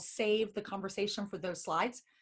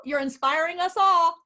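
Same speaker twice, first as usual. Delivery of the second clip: excited praise; 7 semitones higher, 8 dB louder than usual. Real, not acted. Praising participants after cheer.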